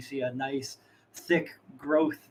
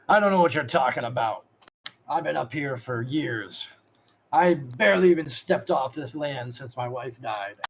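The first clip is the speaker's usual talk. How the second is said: slow, drawn-out protest; lightly acted denial, starting louder; denying shopkeeper; 4 dB louder than usual. Shopkeeper tells players he's been here years, slow protest. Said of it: "he looks at you and says".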